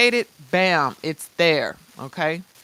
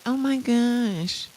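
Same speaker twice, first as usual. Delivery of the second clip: slow, whiny mock critic; lightly voiced nitpicker gasping at typos; mock complainer; 4 semitones higher, slower than usual. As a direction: drag it out like a fussy naysayer. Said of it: "for all the looky-loos that say".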